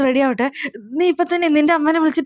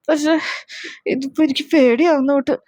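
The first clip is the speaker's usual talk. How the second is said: teary fear. Acted. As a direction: voice starting to cry from worry. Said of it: "നിങ്ങളെന്തിനാണ് ഇങ്ങനെ കരയണത്". (പേടിച്ച് കരച്ചിലിന്റെ വക്കിൽ)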